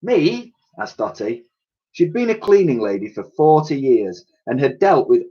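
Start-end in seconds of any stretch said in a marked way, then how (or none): 0.0-0.5 high, startled squeak; aghast at the order; shocked question. A narrator's reading. Shocked lady asks back.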